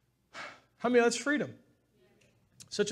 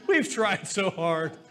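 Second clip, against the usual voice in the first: laughing; 3 semitones higher, much slower than usual. Real, not acted. Laughs at shared failure.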